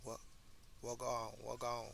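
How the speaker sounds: fumbling attempts at a Jamaican greeting; hesitant Jamaican imitation; broken Jamaican accent. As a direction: keep trying out a rough Jamaican accent. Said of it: "you just heard my broken Jamaican accent".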